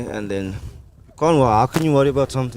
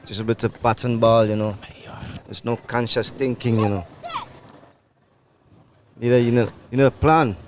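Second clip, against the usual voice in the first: put-on West Indian accent. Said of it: "are you gonna talk to us in your normal accent now".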